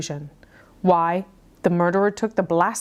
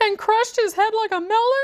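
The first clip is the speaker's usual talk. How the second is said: very high, near-hysterical cry, on the edge of hysteria. Narrator rereads a character's line after a false start, on the verge of hysteria. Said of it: "sorry, that wasn't hysterical enough".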